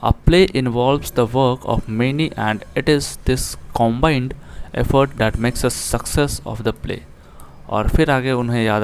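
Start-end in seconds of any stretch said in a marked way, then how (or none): 0.0-7.0 slow, careful reading aloud of the English line; slow text reading. Shown as a demonstration. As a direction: read each word out deliberately for the class. Reads English text aloud slowly. (धीमे, साफ़ अंग्रेज़ी पाठ-वाचन)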